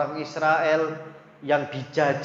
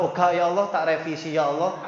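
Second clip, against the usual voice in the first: backpedaling parent. Retold or imitated. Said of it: "gak konsisten".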